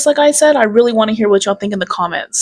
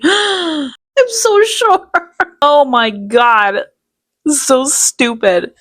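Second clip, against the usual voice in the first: laughing sarcasm; 4 semitones higher, much slower than usual. Real, not acted.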